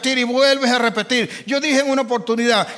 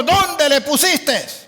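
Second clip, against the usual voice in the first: very slow, higher, each word weighed; deliberate question; 4 semitones higher, much slower than usual. Retold or imitated. Jesus answering Mary's grief with a very slow question. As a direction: drag out the question with firm calm. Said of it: "le preguntó".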